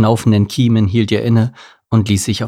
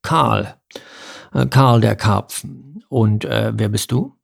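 carp voice; slower than usual. Acted.

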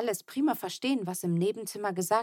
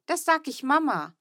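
shouting; 8 semitones higher, 4 dB louder than usual. A narrator's reading. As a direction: shout at the brother's cheek. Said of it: "schrie ich".

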